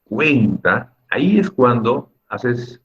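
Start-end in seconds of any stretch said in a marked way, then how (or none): 0.0-1.0 CUEN-ta with a strong E and held ending; stress on the E. Shown as a demonstration. Teacher points out the strong vowel, stressing E in "cuenta". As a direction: lean on the E in "cuenta". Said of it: "La E".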